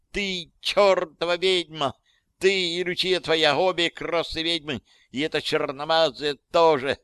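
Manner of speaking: high-pitched hysterical accusation; high, outraged shriek. A narrator's reading. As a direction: squeal the accusation at them. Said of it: "взвизгнула Виктория".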